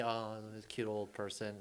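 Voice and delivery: slow, lightly cooing fondness; mild mock sympathy. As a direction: coo slowly over a cute old person. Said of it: "I used to have sympathy".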